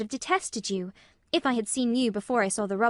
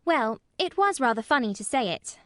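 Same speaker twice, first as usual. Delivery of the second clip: put-on frank little girl, louder and higher; frank admission; 4 semitones higher, 6 dB louder than usual. A narrator's reading. Mary admitting to Colin why she laughed, frank child. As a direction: own up openly in a child's voice. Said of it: "she admitted frankly".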